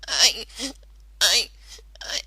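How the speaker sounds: halting, stammered words; through tears. Acted. Rainbow admitting her fear to friends, tearful stammer. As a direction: force the words out between sobs. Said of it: "managed between the tears".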